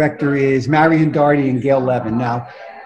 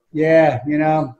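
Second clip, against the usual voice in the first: feigned disappointment; 2 semitones lower, 4 dB quieter than usual. Retold or imitated. Actor hiding his win from rival auditioners, feigned disappointment. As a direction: act mildly let down, giving nothing away. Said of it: "I didn't want to give it away".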